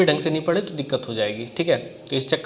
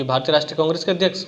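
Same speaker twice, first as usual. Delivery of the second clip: rushed and fast, skimming the words; fast careless skim-reading; hurried skim; faster than usual. Shown as a demonstration. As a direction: rattle it off like a careless student glancing at the question. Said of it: "हमने तुरंत देखा".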